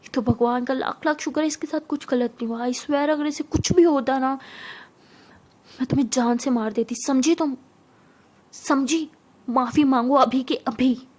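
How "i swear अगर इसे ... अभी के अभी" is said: loud, forceful warning; angry threat. Acted. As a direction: demand obedience with heavy stresses. Acted threat, demands apology. (गुस्से भरी धमकी)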